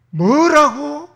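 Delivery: high, loud outraged question; a king shouting in rage; angry king. Acted. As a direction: snap it out in fury. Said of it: "열받아가지고".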